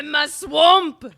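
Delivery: high, slow, loud swamp bellow; Shrek Scottish yell. Retold or imitated. Guest quotes Shrek with a loud Scottish yell. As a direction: roar it like an angry ogre. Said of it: "That's my Scottish accent".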